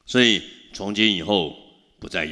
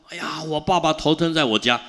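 mock crying; 8 semitones higher than usual. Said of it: "这个女儿就起来哭啊".

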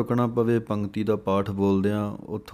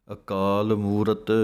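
slow recitation; slower than usual. Shown as a demonstration. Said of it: "ਇਸੇ ਤਰ੍ਹਾਂ ਅਜੂਨੀ ਪਾਠ ਪੜ੍ਹਨਾ ਹੈ".

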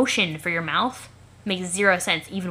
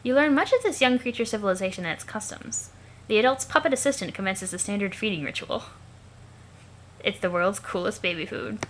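alien observer narrator; faster than usual. Acted. Observer narrating a youngster's new eyewear, lifted formal voice. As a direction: narrate like a fascinated onlooker, pitch lifted. Character voice narrating what is watched.

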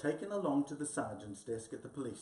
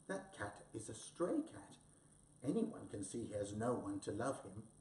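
tender-hearted; 4 semitones lower, 4 dB quieter than usual. Acted. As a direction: feel sorry for the poor cat, quietly. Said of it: "thought tender-hearted Mouse".

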